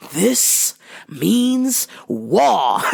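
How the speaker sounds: slow, drawn-out declaration through laughter; laughing war cry. Retold or imitated. Vowing revenge over the Hulk Hogan pencil, laughing. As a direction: declare war while cracking up. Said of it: "and I was like".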